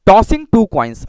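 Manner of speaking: very slow, drawn out; slow dictation. Shown as a demonstration. Teacher dictating the experiment to students, slowly. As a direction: say it slowly as you write. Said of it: "धीरे धीरे मैं पढ़ रहा हूँ".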